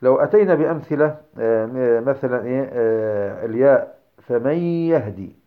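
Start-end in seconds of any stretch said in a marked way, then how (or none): 4.2-5.4 "فمن يهدي" with the noon melted into a long nasal yaa; merged noon with ghunnah. Shown as a demonstration. Teacher giving a tajweed example of the yaa, merged with ghunnah. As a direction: hold a slow nasal "fa-may-yahdi" for "فمن يهدي". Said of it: "ولكن قل فمن يهدي".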